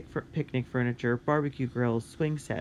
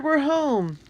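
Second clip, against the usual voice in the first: high, loud joyful holler; boy hollering that they are home; 14 semitones higher, 5 dB louder than usual. Acted. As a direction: shout it out with relief and joy. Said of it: "Tony hollered".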